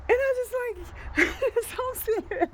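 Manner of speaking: high, fast, laughing through it; can't believe it, laughing. Real, not acted. Reacting to the confident agent, laughing fast.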